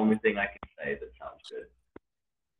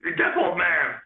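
loud, high puppet-frog taunt; Kermit the Frog; 9 semitones higher, 8 dB louder than usual. Acted. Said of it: "in the Kermit voice".

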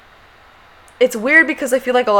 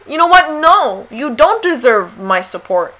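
firm refusal; 3 semitones higher, 4 dB louder than usual. Retold or imitated. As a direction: shut him down firmly. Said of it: "tell them".

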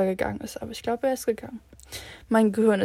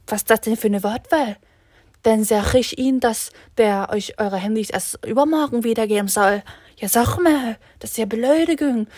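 louder indignant telling-off; scolding janitor; 6 dB louder than usual. Retold or imitated. Janitor indignantly scolds the students about their wording, louder. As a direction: rant at them like an offended janitor. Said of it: "Er nur so".

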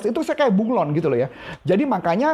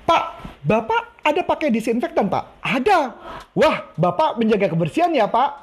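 sales example; 2 semitones higher than usual. Shown as a demonstration. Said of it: "Contoh ya".

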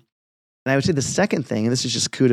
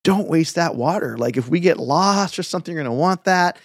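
mildly agitated dad, higher in pitch; freaking-out dad; 5 semitones higher than usual. Retold or imitated. Dad scolding his son for pouring out water, mock freak-out. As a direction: lightly mimic a dad getting worked up. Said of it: "my dad freaking out".

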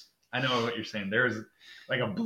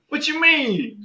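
much higher, louder puzzled question; imitating Jeff's puzzlement; 6 dB louder, slower than usual. Teammate Jeff confused by the question, high mock voice. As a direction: play the teammate as innocently confused. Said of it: "And he's like".

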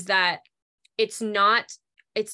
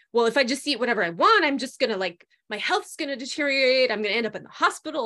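fast, high, a bit louder hammed-up worry; mild mock fretting; mock panic; 4 semitones higher, 3 dB louder, faster than usual. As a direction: imitate someone spiralling about food, rushed. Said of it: "they panic and they're like".

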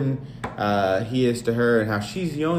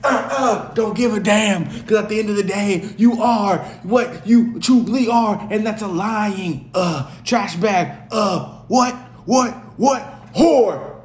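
much higher, louder, slow sassy rant; sassy defiant rant; 8 semitones higher, 3 dB louder, slower than usual. Retold or imitated. Host ranting back at his cheating wife in sassy high voice. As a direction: deliver it like a diva telling her off. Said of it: "I said".

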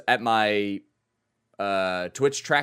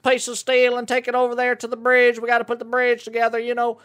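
hick voice; 14 semitones higher, 6 dB louder than usual. Retold or imitated. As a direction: voice a rowdy country worker. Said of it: "Is, is that how they talk?".

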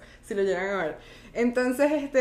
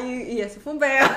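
laughing; 5 dB louder than usual. Real, not acted. Laughing at her own story.

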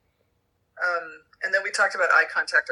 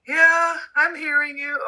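put-on child's voice; 10 semitones higher, 4 dB louder, slower than usual.

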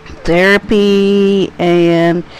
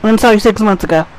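annoyed retort; 3 semitones higher, 5 dB louder, faster than usual. Retold or imitated. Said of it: "And I'm like".

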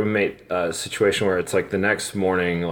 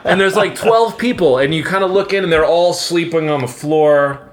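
high, louder, laughing through the words; laughing disbelief; 11 semitones higher, 5 dB louder than usual. Real, not acted. Laughing high and loud while telling friends about the roommate's overnight guests. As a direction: crack up as you picture the crowd in the room.

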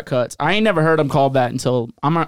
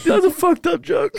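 high, laughing yell of disbelief; laughing outburst; 12 semitones higher than usual. Real, not acted. Friend reacting to the joke, laughing high. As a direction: shriek it through laughter.

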